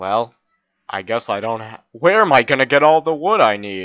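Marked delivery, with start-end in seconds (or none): 1.9-3.9 loud, pitched-up, dripping sarcastic delivery. A player comments to viewers during a game, sarcastic. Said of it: "That's sarcasm".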